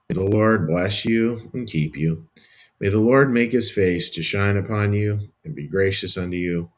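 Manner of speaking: gentle, reverent benediction; priestly benediction, fading at the end; blessing. Acted. Pronounces the Aaronic blessing.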